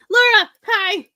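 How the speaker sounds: high, loud, drawn-out hello; light up and call out to a friend who just arrived; excited greeting. Real, not acted. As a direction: streamer greets a newcomer to the chat, thrilled.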